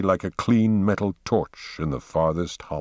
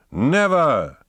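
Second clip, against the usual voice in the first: high, loud refusal; defiant cry; 6 semitones higher, 3 dB louder than usual. Acted. Poe defies the others, crying out his refusal. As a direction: fling it back in defiance.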